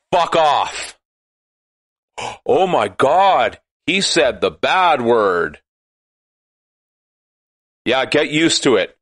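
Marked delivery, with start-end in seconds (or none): none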